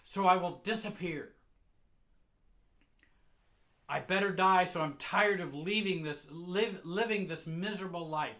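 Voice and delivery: high, loud despairing wail; mother shouting. Retold or imitated. Mother screaming at the vacuum about her life, loud despairing shout. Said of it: "She shouts".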